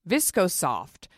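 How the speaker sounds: "Visco Soft" said slowly, each word set apart; slow down and land "Visco Soft" clearly; brand name spelled out. Shown as a demonstration. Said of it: "brand called Visco Soft".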